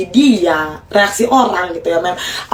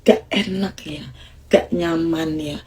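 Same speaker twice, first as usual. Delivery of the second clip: low soothing tone; 2 semitones lower than usual. Shown as a demonstration. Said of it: "Nada rendah".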